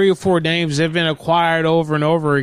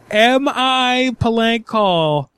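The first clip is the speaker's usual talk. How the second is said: drawn-out, deadpan repeat of her phrase; slow mock echo; 4 semitones higher, much slower than usual. Prank caller repeating the clerk's question slowly and mockingly. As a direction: savour each word as you mock it.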